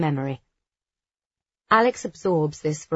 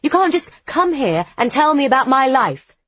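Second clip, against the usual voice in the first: furious, much louder and higher; 8 semitones higher, 7 dB louder than usual. A narrator's reading. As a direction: lash out in fury. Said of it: "I say furiously".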